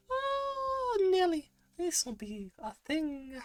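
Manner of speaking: very high, slow put-on voice; high-pitched voice. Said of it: "doing that voice".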